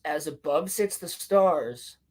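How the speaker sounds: slow mock-ritual delivery; solemn recitation. Reviewer quotes the sisters' rhyme, slow mock recitation. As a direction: stretch the line like an incantation.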